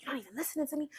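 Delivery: imitating his complaint; mimicked nagging. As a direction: whine it like the boyfriend did.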